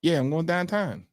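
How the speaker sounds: put-on Pittsburgh Yinzer accent, downtown as dahntahn; light mock Pittsburgh accent. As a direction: imitate a Pittsburgh local, Yinzer vowels. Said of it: "the deep Pittsburgh".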